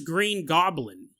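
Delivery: "Green Goblin" with two-syllable GOB-lin; careful GOB-lin in "Green Goblin"; proper-name pronunciation. Retold or imitated. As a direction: slowly say "Green Goblin" with no extra vowel. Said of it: "I say it differently".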